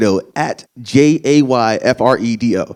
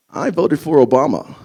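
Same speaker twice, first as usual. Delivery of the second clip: smug white voice. Retold or imitated. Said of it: "They love saying that".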